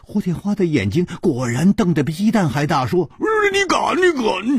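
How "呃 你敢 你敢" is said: higher shout of you dare; outraged shout. Acted. Hu Tiehua shouting at the insolent boy. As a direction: yell the threat back.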